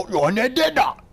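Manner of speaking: high, loud, rising goofy yell; mocking a fighter's hurt cry; silly game cry. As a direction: ham up a game character's pain. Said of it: "he would go".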